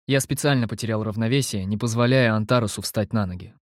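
ordinary delivery, nothing marked

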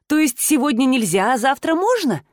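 usual speaking voice

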